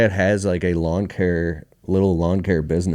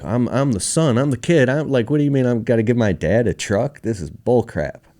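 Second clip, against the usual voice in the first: high-pitched, incredulous objection; indignant protest; 6 semitones higher, 3 dB louder than usual. Retold or imitated. Son balking at giving dad his truck, indignant. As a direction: protest the unfairness, pitch jumping up. Acting out indignation at wife's suggestion.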